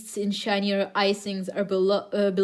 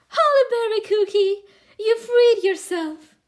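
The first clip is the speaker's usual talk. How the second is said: Eternal Sugar's voice; 11 semitones higher, 6 dB louder than usual. Acted. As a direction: stretch it out like an old hag. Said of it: "do Eternal Sugar's voice".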